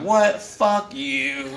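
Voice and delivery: mock angry. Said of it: "I'm like".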